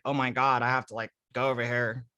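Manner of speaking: lightly voiced hot girl; hot girl impression. Shown as a demonstration. Storyteller quotes the hot girl for laughs, lightly girly. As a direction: slip into a mock girly voice. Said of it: "as if I say".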